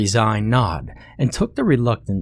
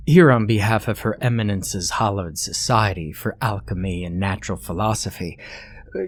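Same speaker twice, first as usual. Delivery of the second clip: cordial gentleman. Acted. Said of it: "Thorogood said cordially".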